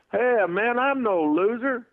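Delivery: hammed-up offended denial; protesting fan. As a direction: fan in the bar insisting he is no loser. Fan protesting in bar story.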